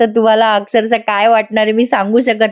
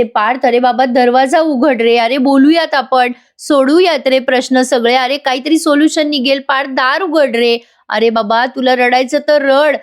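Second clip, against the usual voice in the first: pleading mother at the door; 3 semitones higher than usual. Acted. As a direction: beg him through the door like a frantic mother. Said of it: "मानिनी म्हणत असते". (बंद दारापलीकडच्या मुलाला आई काकुळतीने विनवते)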